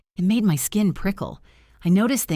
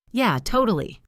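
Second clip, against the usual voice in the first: grinning; 5 semitones higher than usual. Acted. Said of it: "I said, grinning".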